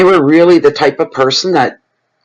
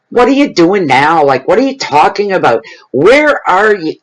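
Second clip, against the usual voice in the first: mock nagging, rising higher toward the end; annoying tone; 4 semitones higher than usual. Partner snapping at mate in a habit of mock irritation. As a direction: imitate a bickering partner's irritated questions. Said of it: "this annoying tone".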